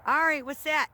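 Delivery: high, loud eager question to the dog; excited call. Real, not acted. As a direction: get the dog curious. Excitedly pointing something out to dog.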